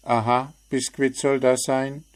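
a bird feigning amazement; mock astonishment. A narrator's reading. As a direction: gespielt erstaunt. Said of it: "staunte der Vogel".

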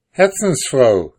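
laut und hoch gerufen; freudiger Ruf. A narrator's reading. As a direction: ruft seiner Frau freudig zu. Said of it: "rief er ihr zu". (Mann ruft begeistert nach seiner Frau)

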